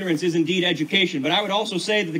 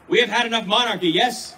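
loud soapbox ranting; 4 semitones higher, 4 dB louder than usual. Acted. Rallying crowd, call and response.

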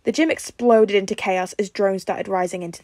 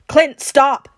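loud, high-pitched warning; sudden alarmed call; urgent shout; 6 semitones higher, 10 dB louder than usual. A narrator's reading. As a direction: shout to stop him. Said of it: "Tony called out".

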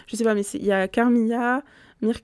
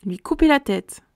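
echoed higher and louder, mock-shocked; amused disbelief; 5 semitones higher, 6 dB louder than usual. Real, not acted. Reader reacting to the general's threat, higher and louder mock shock. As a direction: repeat it as if you can't believe he said it.

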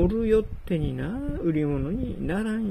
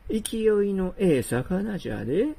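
ordinary talk, nothing marked

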